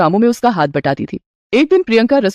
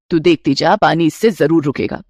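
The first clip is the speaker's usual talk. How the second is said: a doting mother-in-law offering a gift; 5 semitones lower than usual. Acted. Mother-in-law gives her new bride a gold ring, lower voice.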